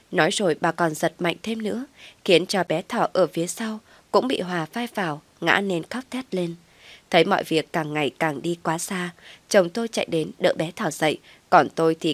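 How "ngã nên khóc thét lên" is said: usual speaking voice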